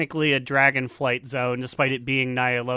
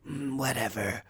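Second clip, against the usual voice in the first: bored dismissive; 3 semitones lower, 10 dB quieter than usual. Retold or imitated. Voicing bored Eternus.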